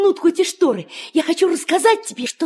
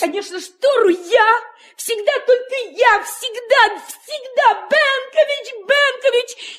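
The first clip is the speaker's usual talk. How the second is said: aggrieved protest; 4 semitones higher than usual. Acted. Son protests always being blamed.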